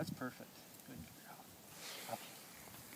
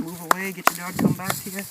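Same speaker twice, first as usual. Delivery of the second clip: louder, higher barked orders; field commands; 6 semitones higher, 10 dB louder than usual. Real, not acted. Trainer shouting field orders at the dog and helper. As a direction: throw the commands out across the water.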